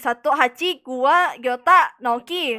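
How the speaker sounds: loud insistent arguing; heated argument. Real, not acted. Player arguing in meeting that Ajarel was missing, loud. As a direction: push the point hard over the others.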